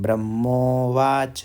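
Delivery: ब्रह्मोवाच said slowly, clearly; slow repetition. Shown as a demonstration. Teacher repeats the word slowly for students. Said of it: "तीन तीन बार बोलते थे".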